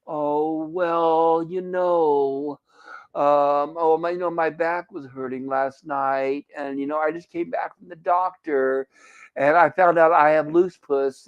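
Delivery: slow, dragging, lightly voiced moaning coworker; mopey complainer. Coworker Leslie moaning about her ailments to the room, slow and draggy. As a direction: drag out the aches like a gloomy energy vampire, half-hearted. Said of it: "she was a vamp-, uh, energy vampire".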